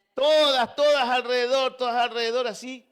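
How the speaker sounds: high, loud, insistent repetition; worked-up retelling. Retold or imitated. Preacher relives the sheep crowding round him, high excited retelling.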